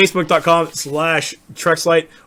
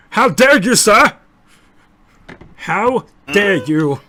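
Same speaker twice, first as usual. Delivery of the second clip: higher, louder pompous offended voice; mock affront, pompous and slow; blustering; 5 semitones higher, 5 dB louder, slower than usual. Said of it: "you think you can do this voice".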